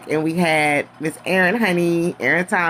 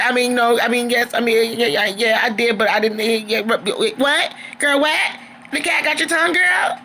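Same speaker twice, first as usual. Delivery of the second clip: mock flustered stammer, climbing higher toward the end; 5 semitones higher than usual. Troy caught out, tripping over his own denials, flustered stammer. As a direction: trip over the denials, then squeak out a taunt. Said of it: "He was stammering all over his words".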